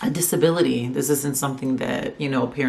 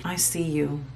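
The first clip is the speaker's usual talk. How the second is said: tender reassurance; 4 dB quieter, slower than usual. Real, not acted. Speaks to fellow autism moms.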